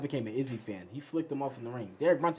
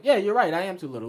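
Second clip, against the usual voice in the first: loud, high hasty giving in; mock eager agreement; 6 semitones higher, 8 dB louder than usual. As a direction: cave in comically to a bigger man. Mock cowering agreement with giant man.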